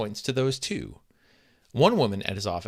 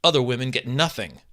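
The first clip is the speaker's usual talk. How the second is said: raised, insistent mock shout; jealous wife shouting at her husband, raised; 3 semitones higher, 5 dB louder than usual. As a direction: lay claim to the exclamation points loudly. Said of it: "she shouts".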